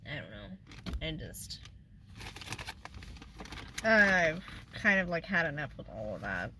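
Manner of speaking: quiet, choked-up tearful voice; barely holding back tears; real crying while talking about her dad. Real, not acted. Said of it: "I didn't expect to get on here and cry".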